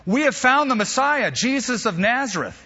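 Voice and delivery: high, loud and thrilled; excited announcement. Acted. Philip telling Nathanael the news, excited and high. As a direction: burst out with the big news.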